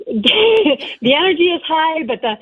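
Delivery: rally the crowd to their feet; announcer voice. Acted. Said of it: "give us your best Nuggets announcer voice".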